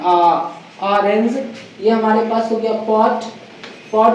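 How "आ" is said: lower, isolated आ; vowel demo. Shown as a demonstration. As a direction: sound out आ alone. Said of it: "ये आ sound आ रहा है". (आ ध्वनि अलग से)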